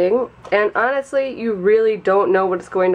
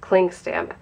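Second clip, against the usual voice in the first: stuffy, nasal sinus voice. Real, not acted. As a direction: talk through a blocked nose. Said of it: "sorry about my nasally voice right now".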